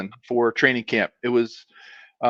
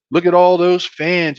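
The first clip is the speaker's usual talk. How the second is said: higher North Carolina coach impression; North Carolina accent; 5 semitones higher, 4 dB louder than usual. Coach showing players the fans, imitated North Carolina accent. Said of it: "I'll try to emulate".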